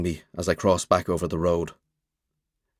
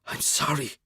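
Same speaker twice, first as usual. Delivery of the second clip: softer, half-voiced, ashamed; soft voiced apology; 6 semitones higher, 6 dB quieter than usual. A narrator's reading. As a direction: say it again just above a whisper. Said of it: "My voice comes out a whisper".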